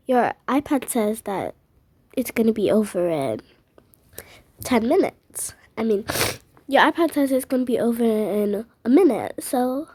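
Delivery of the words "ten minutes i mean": hushed whisper. Acted. Child reading the iPad in a whisper. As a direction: whisper it aside.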